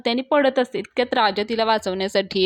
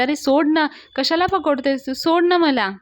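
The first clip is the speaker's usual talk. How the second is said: annoyed protest; 5 semitones higher than usual. Retold or imitated. Wife telling husband to let go, higher irritated protest. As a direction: shake him off, irritated and rising.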